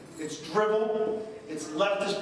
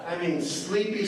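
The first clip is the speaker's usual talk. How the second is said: Biden impression. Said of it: "But this is my Biden impression".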